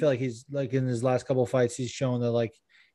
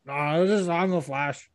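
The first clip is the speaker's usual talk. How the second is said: slightly raised fighter character voice; Stipe; 3 semitones higher than usual. Acted. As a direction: insist haltingly on a silly superhero identity. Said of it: "you talked about being the Flash".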